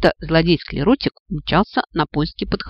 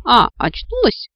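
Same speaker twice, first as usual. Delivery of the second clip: a slow, sneering villain sneer, a bit higher; nasty giggling voice; 7 semitones higher, 4 dB louder than usual. A narrator's reading. Villain gloats to the waking heroine, slow and sneering. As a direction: gloat over the waking captive. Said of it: "мерзко захихикал противный голос".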